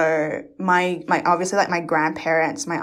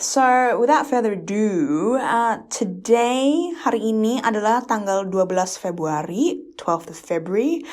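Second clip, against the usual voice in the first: radio host voice; 4 semitones higher than usual. Retold or imitated. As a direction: announce the date like an Indo radio host. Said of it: "I just sounded like a, um, radio broadcast host".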